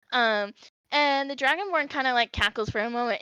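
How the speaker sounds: ordinary talk, nothing marked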